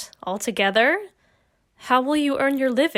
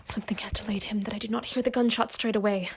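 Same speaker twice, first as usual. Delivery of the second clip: anxious whisper; 2 semitones lower, 6 dB quieter, faster than usual. Acted. Waiting anxiously for the gunshot.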